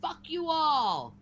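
shouted curse, slow and heavy; furious repeated curse; angry yell. Real, not acted. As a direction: yell it at the whole chat. Angry rant at chat.

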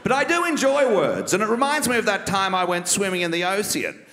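a lightly voiced smug, refined politician; Malcolm Turnbull impression. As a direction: savour every word like a self-satisfied rich man. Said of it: "Malcolm Turnbull impersonation".

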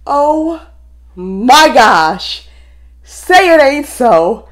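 loud stunned words building to high squeals; overwhelmed, loud and shrieky; hyperventilating disbelief. Real, not acted. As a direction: start floored, then squeal with breathless laughter. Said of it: "I'm hyperventilating a little bit".

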